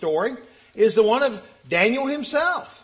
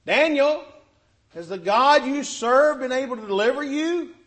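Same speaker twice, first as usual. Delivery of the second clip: raised voice calling down into a pit; yelling down; 3 semitones higher, 4 dB louder than usual. Retold or imitated. King calling anxiously down into the lions' den, loud. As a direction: call out loudly to someone far below. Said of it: "watching Nebuchadnezzar yell down into this pit".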